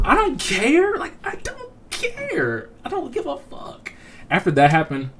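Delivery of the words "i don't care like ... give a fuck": exasperated indifference. Retold or imitated. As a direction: stretch it out in a hammed-up falsetto whine. Acting out exasperated reply to gossip.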